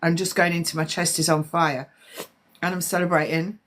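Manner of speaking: throat burning from a strong drink; gasping through a burning throat; after a shot of liquor. Real, not acted. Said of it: "The back of my throat's on fire".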